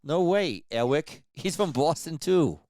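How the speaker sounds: Boston voice like marbles in the mouth. Retold or imitated. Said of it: "Does that sound like him?".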